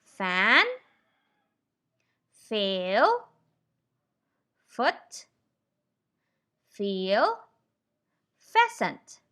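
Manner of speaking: fan, fail, foot, feel, pheasant, each opening on a long, clear F. Shown as a demonstration. Teacher modelling F words for learners, each F drawn out. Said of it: "Let's try this".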